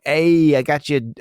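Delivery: put-on brief, loud stab at a Brooklyn accent; Brooklyn accent attempt. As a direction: lightly try on a Brooklyn accent. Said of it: "Please do the accent".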